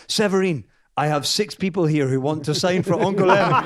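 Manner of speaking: Johnny ringing Severine at one a.m. in a put-on French accent. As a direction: ham up the French accent as Johnny, chuckling through it. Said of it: "put on the same French accent that I'm putting on".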